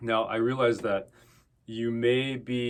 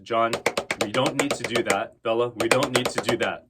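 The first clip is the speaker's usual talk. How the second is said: louder, firm teacher's warning to stop; firm correction; 5 dB louder than usual. Real, not acted. Drum teacher stopping John and Bella's habit, firm and loud. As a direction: call the students out and tell them no.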